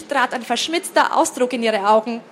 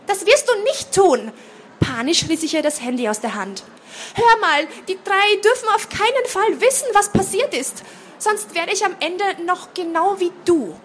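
panicky protest; 7 semitones higher than usual. A narrator's reading. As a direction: stop your sister from calling the aunts. Panicked, snatches phone from sister. (panisch, hoch und laut)

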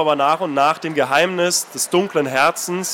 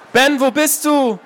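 desperate calling; 8 semitones higher, slower than usual. Acted. Anna searching the darkness for Ben, desperate calling. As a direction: call into the dark, desperate.

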